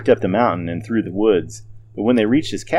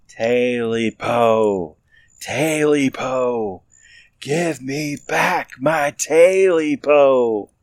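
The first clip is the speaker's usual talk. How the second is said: slow, drawn-out, rising creature wail; the creature closing in, demanding; demanding creature moan; 5 semitones higher, much slower than usual. A narrator's reading. Creature demanding its tail back, slow rising wail. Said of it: "The scratching grew louder".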